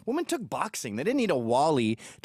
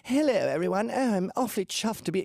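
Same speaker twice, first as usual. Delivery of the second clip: mock posh English accent; 5 semitones higher than usual. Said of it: "I had a gay accent".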